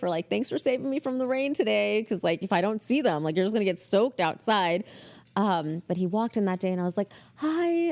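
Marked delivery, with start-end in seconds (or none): 0.3-2.0 imitated high, friendly thank-you. Boss thanking receptionist at the door, friendly. 7.4-7.9 high, drawn-out hello; tentative greeting. Retold or imitated. Receptionist flagging down the marketing boss, tentative. Nervously flags down the executive.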